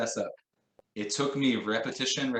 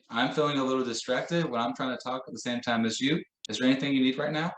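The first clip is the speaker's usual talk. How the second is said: matter of fact; 3 semitones higher than usual. Shown as a demonstration. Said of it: "Say it just like that, matter of fact".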